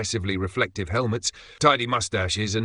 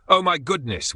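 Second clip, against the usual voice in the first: high, louder astonished cry; officer crying out; 8 semitones higher, 4 dB louder than usual. Acted. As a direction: exclaim in sudden amazement. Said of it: "one officer cried".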